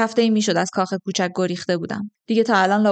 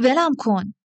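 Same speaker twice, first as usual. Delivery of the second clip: higher, more forceful demand; pitched-up plea to let go; insistent protest; 4 semitones higher, slower than usual. A narrator's reading. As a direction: raise the pitch and insist on being released. She repeats demand, now firmer.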